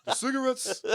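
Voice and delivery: put-on high, laughing old lady voice; old Jewish woman accent. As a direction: raise it into a cackly old woman. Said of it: "Add a little, like".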